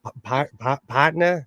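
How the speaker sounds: tag West Coast attempt at southern. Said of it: "too much of a West Coast accent".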